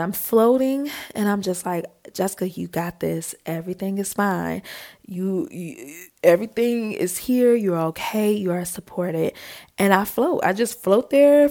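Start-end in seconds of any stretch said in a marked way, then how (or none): 2.1-9.3 soft, soothing affirmations; calming self-talk. Retold or imitated. Floating swimmer reassuring themself with eyes closed, calming. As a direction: quietly talk yourself through the fear.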